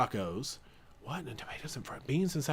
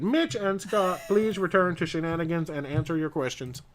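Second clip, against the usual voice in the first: bad acting; 3 semitones higher than usual. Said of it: "This is like the muster drill when they start calling you".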